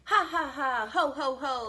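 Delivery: gleeful "ha, ha, ha, ho, ho, ho"; loud laugh. Acted. Two pigs laughing at the fooled wolf, gleeful loud laughter. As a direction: crow with laughter. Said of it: "laughed the two little pigs".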